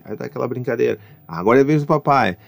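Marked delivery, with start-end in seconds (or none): 1.3-2.4 higher and louder with each line; playful excited dad. Acted. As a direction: ham up finding a big booger. Dad plays blowing his own nose.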